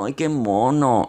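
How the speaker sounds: mock cooing. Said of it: "alguien diciendo".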